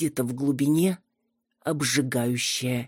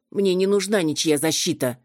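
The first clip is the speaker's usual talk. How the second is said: losing it; 4 semitones higher than usual. Acted. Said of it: "Окончательно сорвалась я с резьбы".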